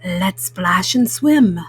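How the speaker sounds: a mellow cool cat suggesting fun; Pete the Cat voice. Acted. Mom reading to kids, voicing cool cat Pete.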